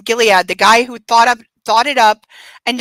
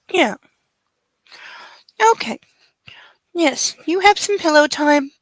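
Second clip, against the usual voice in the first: soothing pet talk; 4 semitones higher than usual. Real, not acted. Mommy settling her puppy on the pillow, soothing. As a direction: gently reassure a pet, in short phrases.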